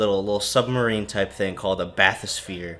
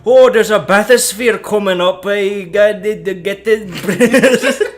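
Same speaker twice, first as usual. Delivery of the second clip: much higher and louder hammed-up voice; a silly, squeaky, shouty Atlas; 11 semitones higher, 11 dB louder than usual. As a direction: play an eager, excited Atlas over the radio. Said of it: "there's this guy named Atlas".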